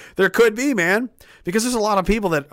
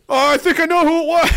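high, loud eager laughing tattletale; eager snitching; 12 semitones higher, 5 dB louder than usual. Acted. Soldier eagerly tells the sergeant who did it, laughing. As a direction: blurt it out, delighted to snitch.

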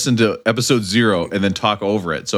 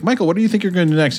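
mock producer voice; 7 semitones higher, faster than usual. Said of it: "and they're like".

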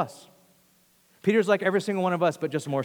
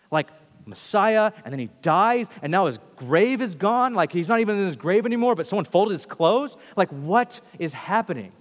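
higher, louder mock bafflement; bewildered wondering; 4 semitones higher, 5 dB louder than usual. Peter reasoning over the empty grave, acting out bewilderment. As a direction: puzzle it out aloud, increasingly incredulous. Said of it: "Peter walked away wondering".

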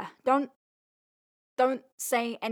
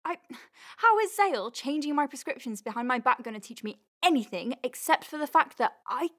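indignant; 4 semitones higher than usual. Acted. Angry about colleague betrayal.

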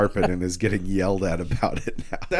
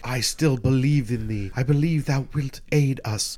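Sheila; 3 semitones higher than usual. Retold or imitated. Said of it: "And then Sheila's like".

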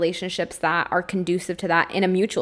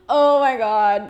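real tears breaking through a nervous laugh; fighting back tears, voice slipping; overcome with emotion; 3 semitones higher than usual. Real, not acted. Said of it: "I'm gonna get so emotional".

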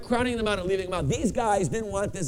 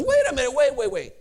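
baffled interruption; 5 semitones higher, 4 dB louder than usual. Retold or imitated. Bishop halts the happy delegation.

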